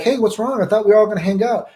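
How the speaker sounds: mock-hurt kid; whiny Church Boy. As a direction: play the clueless tag-along. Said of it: "Church Boy would be like".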